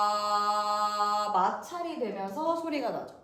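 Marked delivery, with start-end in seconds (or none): 0.1-1.3 loud, firm sustained ah; strong supported ah. Shown as a demonstration. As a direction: press from the belly into ah. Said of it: "배를 안으로 살짝 한번 밀어보면서".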